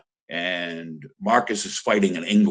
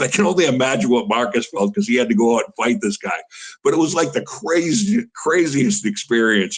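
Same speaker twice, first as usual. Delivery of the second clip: higher and louder, buzzing with the memory; excited; 4 semitones higher, 3 dB louder than usual. Real, not acted. Coach recalling the arena bouncing, thrilled and higher. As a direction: let the thrill of that night lift your voice.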